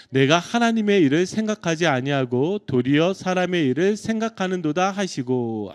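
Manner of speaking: loud unison scripture reading; congregational reading. Real, not acted. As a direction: read the verse aloud together with the congregation. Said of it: "우리 한번 같이 한 목소리 읽겠습니다".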